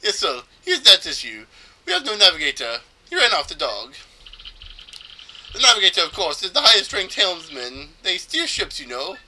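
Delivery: mock Spanish accent with a flourish. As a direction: explain it dramatically in a loose Spanish accent. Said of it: "I think it's supposed to be Spanish".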